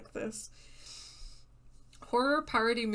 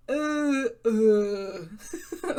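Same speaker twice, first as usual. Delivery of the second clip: laughing; 7 dB louder than usual. Real, not acted. Trying to reset the accent.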